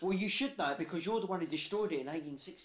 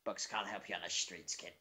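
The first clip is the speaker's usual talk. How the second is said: Mickey from Rocky; 10 semitones lower, 5 dB quieter than usual. Retold or imitated. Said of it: "sounding like Mickey from Rocky".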